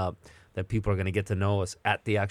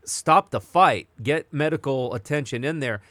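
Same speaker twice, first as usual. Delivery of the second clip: mildly louder, higher replay of yelling at a fight; retold yelling; 4 semitones higher, 3 dB louder than usual. Watching the fight alone, yelling at the ref, retold raised voice. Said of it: "And I'm yelling".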